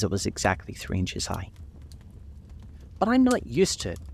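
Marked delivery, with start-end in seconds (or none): 3.0-4.0 piteous plea. A narrator's reading. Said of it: "pleaded poor Alice in a piteous tone".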